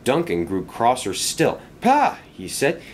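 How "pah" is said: high-pitched scornful exclamation; scornful outburst. A narrator's reading. Cross engine scoffs at his rival's success, scornful.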